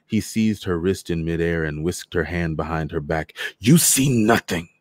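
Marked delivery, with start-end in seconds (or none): 3.6-4.7 forceful, higher hiss of a threat; hissing through teeth. A narrator's reading. Soldier gripping a woman's wrist, hissing threat. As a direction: bite it out between your teeth. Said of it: "his voice hissing between his teeth".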